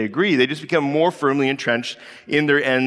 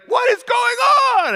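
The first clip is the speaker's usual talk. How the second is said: put-on loud high shout at the kids; 5 dB louder than usual. Dad shouting at his fighting kids, loud and high. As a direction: yell to break up the fight.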